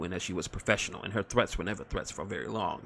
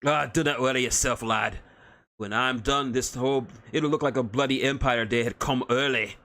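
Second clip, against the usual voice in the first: gruff Scottish-Irish dwarf; 3 semitones higher, 3 dB louder than usual. Acted. Dwarf promises fireworks.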